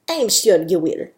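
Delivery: lightly put-on Spanish accent; a touch of Spanish accent. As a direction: encourage with a mild Spanish accent. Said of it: "Sophia's got a bit of a Spanish accent".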